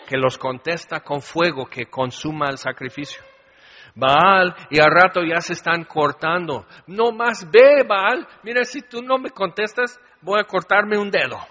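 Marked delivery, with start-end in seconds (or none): 3.9-4.5 calling out. Acted. Prophets crying out to Baal. 6.9-11.4 frantic pleading. Acted. Prophets of Baal begging frantically.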